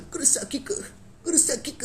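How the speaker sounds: very high, squeaky mock anime girl cry. Vlogger mocking the Bleach girl's one line, high squeal. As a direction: squeal the name like a helpless anime heroine. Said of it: "anime में लड़कियाँ बिल्कुल ऐसे".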